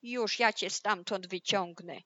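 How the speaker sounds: understated wolf threat; mild angry yell. Acted. Wolf threatens the pig in the hut, mildly angry yell. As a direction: threaten with a touch of anger. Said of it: "wrzasnął gniewnie wilk".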